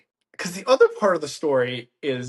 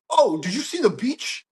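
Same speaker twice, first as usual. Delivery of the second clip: high-pitched imitation of a chirpy friend; mock enthusiasm; 8 semitones higher, 3 dB louder than usual. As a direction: gush it in mockery, pitched up. Imitating friend's cheery question after landing.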